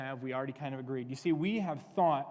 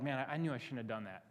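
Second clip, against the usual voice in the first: softer, muttered regret; rueful self-reproach; 3 semitones lower, 6 dB quieter, faster than usual. Acted. Looking back on a mistake, ruefully. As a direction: kick yourself quietly.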